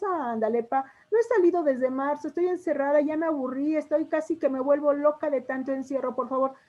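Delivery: pleading daughter. Shown as a demonstration. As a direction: beg dad to let you out. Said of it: "hasta la entonación de la voz nos cambia". (hija rogando, voz aguda)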